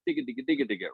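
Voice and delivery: even, rhythmic "digga" syllables; mouthed picking sound. Shown as a demonstration. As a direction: imitate picked bass notes with your voice. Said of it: "you'd pick it like".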